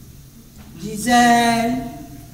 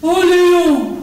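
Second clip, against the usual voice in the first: sultry voice; 4 semitones higher, 5 dB louder than usual. Shown as a demonstration. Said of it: "Une voix langoureuse".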